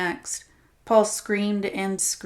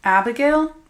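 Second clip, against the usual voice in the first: scornful snort; 7 semitones higher, 8 dB louder than usual. Acted. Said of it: "Paul snorted".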